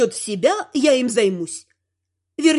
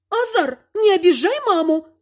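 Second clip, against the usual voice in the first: sharp, higher outraged cry of the name; indignant; 6 semitones higher than usual. A narrator's reading. Mother rebuking her husband, indignant and higher. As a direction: scold the son for upsetting mom. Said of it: "возмутилась мамуля".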